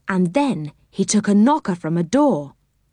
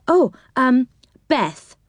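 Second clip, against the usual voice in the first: mild surprise, hesitating before answering; a girl caught slightly off guard; surprised girl; 6 semitones higher, slower than usual. A narrator's reading. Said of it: "said the girl in surprise".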